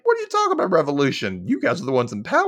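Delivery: incredulous. Retold or imitated. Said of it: "Patrick's like".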